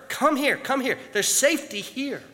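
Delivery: high, loud beckoning calls; calling to the bird. Retold or imitated. Man in the barn calls the bird to safety, loud. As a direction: call it in across the storm. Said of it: "began to wave frantically to the bird".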